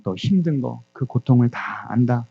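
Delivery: slow, measured reassurance; God's words, voiced slowly; retold divine comfort. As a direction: reassure slowly, pausing between phrases. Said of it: "하나님께서 이렇게 말씀하시더랍니다".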